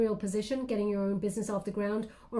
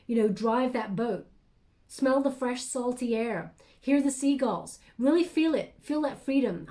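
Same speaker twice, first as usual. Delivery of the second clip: guided visualization. Acted.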